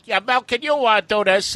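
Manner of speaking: hammed-up sound engineer; sound man voice. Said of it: "also played by Mel Blanc".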